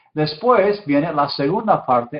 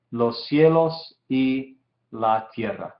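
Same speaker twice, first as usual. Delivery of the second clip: slow, phrase by phrase, falling to the end; slow careful translation; slower than usual. Shown as a demonstration. Teacher translating the verse's ending for students, slow and deliberate. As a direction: translate it slowly and let the last word drop.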